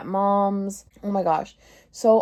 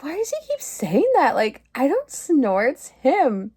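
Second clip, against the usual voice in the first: indignant; 5 semitones higher than usual. Retold or imitated. Retelling her own indignation.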